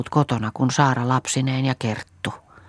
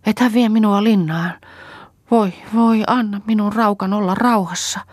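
high, loud wail broken by sobs; sobbing plea; 9 semitones higher, 4 dB louder than usual. A narrator's reading. Kerttu begging Saara not to take her to prison, sobbing. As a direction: beg through bursts of crying. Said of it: "nutjahtelivat itkun purskauksista".

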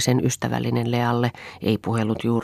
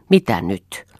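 curt, understated anger; a short question with a touch of anger; mildly irritated demand; angry; 3 semitones lower, 4 dB louder, slower than usual. Acted. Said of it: "sanoi Eero vihaisesti".

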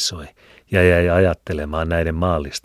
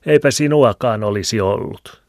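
a whiny, louder needling voice; 6 semitones higher, 7 dB louder than usual. A narrator's reading. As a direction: whine it at him. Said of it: "kitisevällä äänellä". (kitisevä ääni)

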